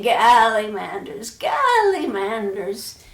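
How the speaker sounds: calling out. Acted. Old woman calling out, running.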